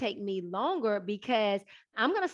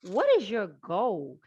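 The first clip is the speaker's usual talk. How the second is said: slow probing questions. Retold or imitated. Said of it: "what God kept saying to me".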